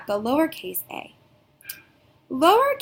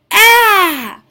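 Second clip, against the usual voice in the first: loud high mock scared "Ah!"; scared cry; 9 semitones higher, 13 dB louder than usual. Shown as a demonstration. Teacher acting scared of monster for letter sound. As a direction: shriek like you've seen a monster. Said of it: "Letter A says".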